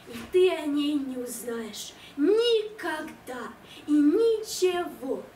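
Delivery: slow, solemn recital of a love poem; dramatic poetry declamation. Acted. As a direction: declaim it slowly with grand pathos. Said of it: "Поэма".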